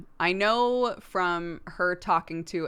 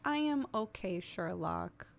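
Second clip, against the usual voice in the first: put-on toddler voice; 2 semitones higher, 7 dB quieter than usual. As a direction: speak as a little child answering mum. Child's reply quoted to mother.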